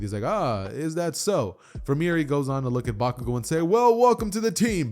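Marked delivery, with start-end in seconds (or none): 0.2-1.6 intrigued. Retold or imitated. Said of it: "very much so intrigued". 3.6-4.9 much higher and louder hearty greeting; booming welcome. Retold or imitated. All Might welcomes Bakugo.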